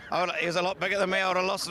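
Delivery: rushed words through laughter; laughing. Real, not acted. Trainer laughing back at the host's jibe. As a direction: talk fast while still laughing.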